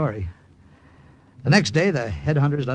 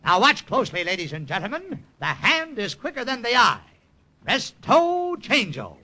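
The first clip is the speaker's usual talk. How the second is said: stage magician patter; 2 semitones higher than usual. Acted. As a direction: play the carnival magician working the crowd. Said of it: "And I went into my act".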